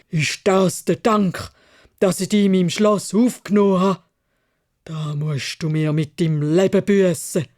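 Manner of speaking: laute, drohende Biest-Stimme, erst langsam dann schnell; tobend. Acted. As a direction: steigere dich in die Wut hinein. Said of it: "hat's mit einer heiseren Menschenstimme tobet". (Biest droht dem Kaufmann mit dem Tod)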